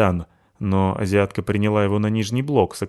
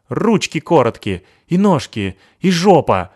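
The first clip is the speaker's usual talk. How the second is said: taunting; 7 semitones higher, 7 dB louder than usual. Acted. Абута дразнит Натаху.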